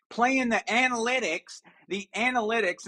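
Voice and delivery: "analytics" with its first syllables, ANAL, leaned on mockingly; stress on ANAL in analytics. Real, not acted. Pundit mocking a coach's field goal call, ANAL stressed in "analytics". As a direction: punch the ANAL at the front of "analytics". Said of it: "I stress the word anal".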